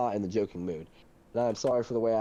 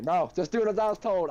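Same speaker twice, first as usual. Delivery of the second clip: raised, higher-pitched outburst; retold yell; 7 semitones higher, 6 dB louder than usual. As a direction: re-enact crashing out and yelling it. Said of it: "I start yelling it".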